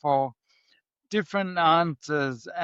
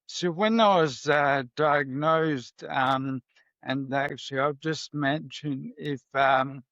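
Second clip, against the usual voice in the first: shaky voice. Real, not acted. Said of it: "my voice sounds a bit shaky".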